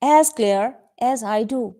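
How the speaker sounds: slow, clear model reading. Shown as a demonstration. Teacher models the phrase slowly for her students. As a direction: spell it out slowly for the class. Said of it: "teacher models the phrase".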